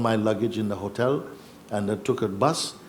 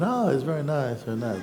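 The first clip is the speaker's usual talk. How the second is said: polite; 3 semitones higher than usual. Retold or imitated. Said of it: "I was just polite".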